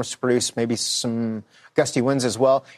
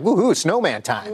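lightly hammed-up woohoo, a bit higher; mock excitement; 4 semitones higher than usual. Co-host imitating viewers overexcited about a few flakes, mock excited. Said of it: "get all excited, like".

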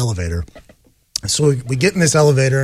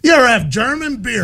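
eager dad; 8 semitones higher, 3 dB louder than usual. Retold or imitated. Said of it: "And my dad goes".

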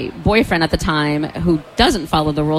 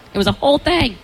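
higher emphatic repeat; 8 semitones higher than usual. Real, not acted.

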